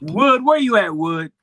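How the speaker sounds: loud, high call. Real, not acted. Calling for an absent co-host.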